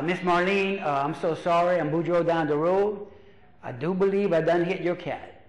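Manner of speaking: lightly voiced apologetic Cajun uncle; Cajun accent. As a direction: imitate a Cajun neighbor owning up. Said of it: "he's got that accent".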